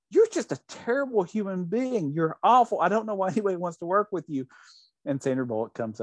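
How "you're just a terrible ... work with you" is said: higher-pitched retold outburst of temper; mock angry rant. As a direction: act out a mock scolding rant, not a full scream. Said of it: "loses his temper and screams at her".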